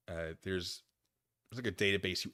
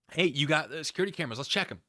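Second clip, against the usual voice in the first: mock cop voice; 6 semitones higher, 8 dB louder than usual. Voices police asking again.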